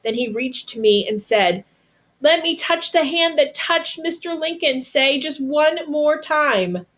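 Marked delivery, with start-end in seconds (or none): 2.2-6.8 higher, slowing to a fragile last request; a feverish friend begging for one more touch; tender plea. A narrator's reading. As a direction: ask gently, as if it's the last thing you'll ever say.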